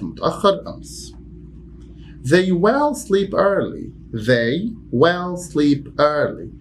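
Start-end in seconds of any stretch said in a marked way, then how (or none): 2.2-3.9 slow, high, every word spaced; stressed WILL, very slow; slow model sentence. Shown as a demonstration. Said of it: "teacher demo sentence". 4.1-6.5 slow, even repeat; very slow repetition. Shown as a demonstration. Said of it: "repeated demo".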